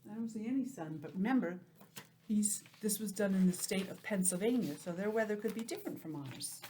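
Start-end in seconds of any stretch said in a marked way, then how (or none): 2.3-4.7 whispering. Real, not acted. Aside to kids.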